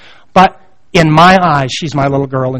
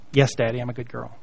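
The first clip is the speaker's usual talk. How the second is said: put-on soft, much quieter little-girl voice; toddler's reply; 7 semitones lower, 14 dB quieter than usual. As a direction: answer meekly like a small child. Toddler answering her father.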